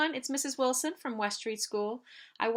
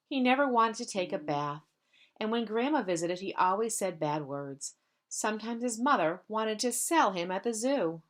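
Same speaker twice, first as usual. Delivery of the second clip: put-on gentle read-aloud for children; story narration. Teacher reads picture book aloud.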